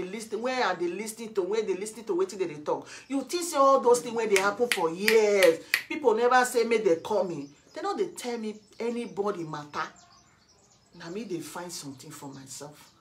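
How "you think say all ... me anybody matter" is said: loud, heated challenge; angry self-defence. Real, not acted. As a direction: throw the accusation back forcefully.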